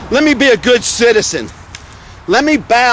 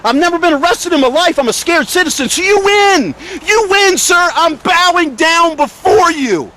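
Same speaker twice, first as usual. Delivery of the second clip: high, emotional mock submission to the officers; emotional outburst; 8 semitones higher than usual. Real, not acted. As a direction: voice pitched way up, bitterly conceding defeat. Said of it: "apologize for getting emotional".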